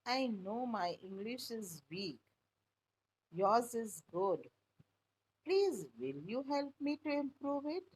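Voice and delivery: timid, shaky plea; on the verge of tears; trembling voice. Acted. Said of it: "Her voice trembling".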